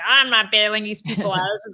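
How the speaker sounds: lightly voiced Bernie, a touch gruff and insistent; mock Bernie ranting, only slightly put on; half-hearted Bernie Sanders impression. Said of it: "I can't do a good Bernie impression".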